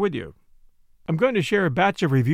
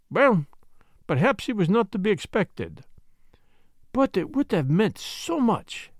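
lightly voiced detective, pitch lifting as he ponders; Poirot musing; 3 semitones higher than usual. Detective musing over his fruitless search, pensive. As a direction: think aloud in character, slowing at the end.

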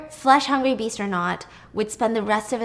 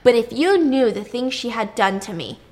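much higher, shouted furious tirade; exploding in anger; 5 semitones higher, 8 dB louder than usual. Retold or imitated. Minos raging at Circe about his wife, shouting. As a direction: blow up, spitting every word. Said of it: "Minos exploded".

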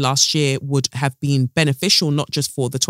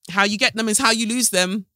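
sassy first take; 4 semitones higher than usual. Real, not acted. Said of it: "repeated phrase".

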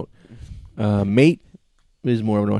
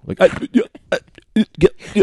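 choppy, chopped-off syllables; cutting-out voice; 12 semitones higher, 5 dB louder, much faster than usual. Retold or imitated. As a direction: imitate audio dropping in and out. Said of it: "sound like someone is just hitting ... the mute button".

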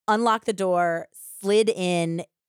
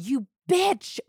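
high-pitched mock outrage; acted indignation at normal volume; retold outrage; 7 semitones higher than usual. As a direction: imitate her indignant outburst, pitch jumping up. Retold outburst at attacker.

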